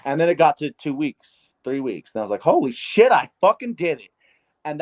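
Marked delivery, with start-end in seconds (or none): 2.4-4.1 excited disbelief. Retold or imitated. Realizing he has quit for weeks, an excited cry. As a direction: blurt it like you can't believe it. Retold joy at two-three weeks.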